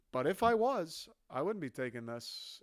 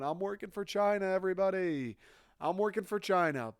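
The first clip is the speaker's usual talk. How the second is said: higher, mock proud call to the room; mock announcing; 4 semitones higher than usual. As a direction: announce it to everybody like a clueless spy. Spy announcing himself loudly.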